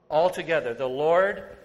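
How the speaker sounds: loud, rising call to the congregation; call and response. Real, not acted. Preacher prompting congregation to answer, loud rising call. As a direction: push the crowd to shout back.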